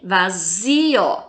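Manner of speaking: "Vazio" with a long ZI; drawn-out stressed ZI in "Vazio"; tonic syllable stressed. Shown as a demonstration. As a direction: lean on ZI in "Vazio". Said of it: "fala com mais intensidade".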